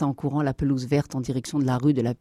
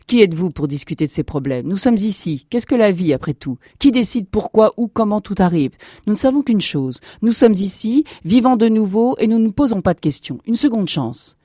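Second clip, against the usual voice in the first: emphatic, insistent lecture, raised pitch; indignant rebuke; 4 semitones higher, 5 dB louder than usual. Acted. Old woman silencing the questioning captain, indignant. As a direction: scold firmly, driving each point home.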